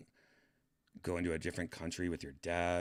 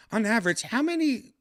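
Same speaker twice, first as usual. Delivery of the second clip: loud eager question; 10 dB louder than usual. Real, not acted. Streamer grilling his chatbot, loud and high. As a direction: push the question at it loudly.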